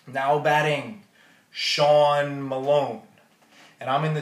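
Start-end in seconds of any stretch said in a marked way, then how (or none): 0.1-3.0 loud, slow stadium announcer; announcer call. Retold or imitated. Imitating the announcer calling Sean to bat. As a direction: stretch the name like a ballpark PA.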